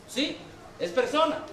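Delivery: usual speaking voice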